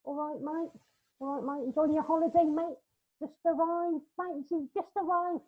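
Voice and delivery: high-pitched mock southern English holidaymaker; southern English accent. Southerner greeting fellow holidaymaker, mock southern English accent. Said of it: "they have that accent, don't they?".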